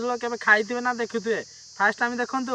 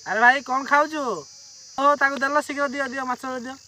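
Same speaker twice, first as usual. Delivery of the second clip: excited; 3 semitones higher, 5 dB louder than usual. Real, not acted. Excited reaction to food clip.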